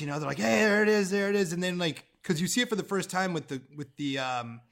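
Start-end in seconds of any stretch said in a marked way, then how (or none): 0.4-1.5 mildly excited, imitating the new guys; a touch of retold excitement; stoked. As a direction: quote friends pointing it out, a bit higher. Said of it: "they were stoked".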